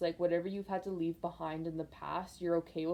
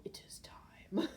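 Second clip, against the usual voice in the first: put-on slow, breathy whisper of a wise old mentor; slow whispered prophecy; Rafiki from Lion King; 5 semitones higher, 6 dB quieter, much slower than usual. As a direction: hush it out slowly like a sage old baboon. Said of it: "the Rafiki off of Lion King go".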